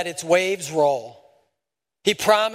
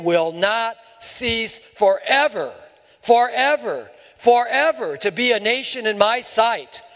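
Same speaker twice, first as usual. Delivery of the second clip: building emphasis; 5 semitones higher than usual. Real, not acted. Emphatic repeated forever.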